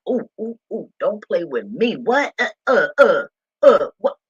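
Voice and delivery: excited outburst. Real, not acted. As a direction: burst out as the spirit hits. Feeling God's presence, jumping.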